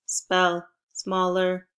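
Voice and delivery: slow, evenly spaced robot syllables. Pretend. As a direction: spell it like a toy robot. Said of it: "in a robot voice".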